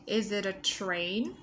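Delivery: "Is it a train" with a z in "is" and a flapped t; linked flap T. Shown as a demonstration. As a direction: run "it a" together like "ida". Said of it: "Z ending sound này và T trung âm này".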